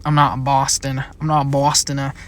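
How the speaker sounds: playful attempt at Boston accent; mock Boston accent. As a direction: lightly put on a Boston accent. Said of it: "never gonna do those voices".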